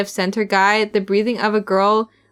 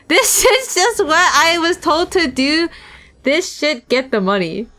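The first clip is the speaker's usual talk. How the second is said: slower, higher thug take; slow, sneering thug; 6 semitones higher than usual. Shown as a demonstration. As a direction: drag it out with a sneer. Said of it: "I, wait".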